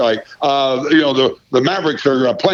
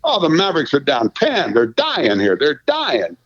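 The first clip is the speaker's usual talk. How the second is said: mock highlight call. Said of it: "go through it and say".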